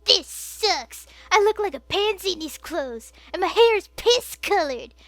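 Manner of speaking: high, whiny complaint; whining. Acted. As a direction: whine like a sulky teen. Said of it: "he whined".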